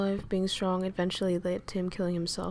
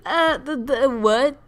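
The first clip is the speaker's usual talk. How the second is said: incredulous; 5 semitones higher, 8 dB louder, slower than usual. Retold or imitated. His reaction to macho friends.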